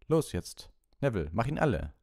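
high, loud rallying call; urging. A narrator's reading. Lupin sends Neville to finish the Boggart, urging. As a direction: spur the pupil on.

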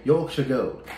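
mild put-on English accent; American's light stab at an English accent. Shown as a demonstration. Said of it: "I have to only say it in my, uh, uh, English accent".

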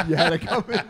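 laughing tease. Real, not acted.

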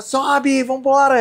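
mock lifeguard shout; retold urgent order. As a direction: push him to climb aboard now.

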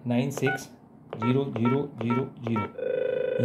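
slow, spaced-out digits; dictating keyed digits. Shown as a demonstration. Trainer dials the reset code for learners, slowly dictating. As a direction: call out each digit while dialling.

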